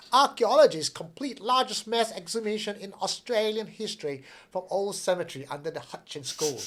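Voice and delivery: a light attempt at an Australian accent. Shown as a demonstration. Reading the news headline to her co-host in a hinted Australian accent. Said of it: "let me try to do this in Australian accent".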